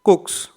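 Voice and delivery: "कुक्स" with a voiceless s after k; S sound at the end. Shown as a demonstration. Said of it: "इसलिए इसका उच्चारण होगा". ("कुक्स" के अंत में स की आवाज़)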